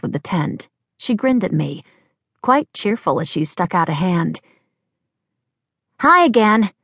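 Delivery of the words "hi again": high, bright-voiced young woman chattering; bubbly young Cressy. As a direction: play the flustered, chirpy girl.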